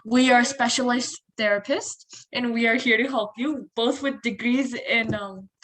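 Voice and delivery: playful mock sales pitch; joking offer of professional help; sarcastic. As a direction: pose as an expert, tongue in cheek. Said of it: "that's sarcasm, by the way".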